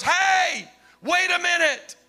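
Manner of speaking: high, urgent call to halt a crowd; preacher acting out an urgent interruption; calling out a warning. Man interrupts the celebrating crowd.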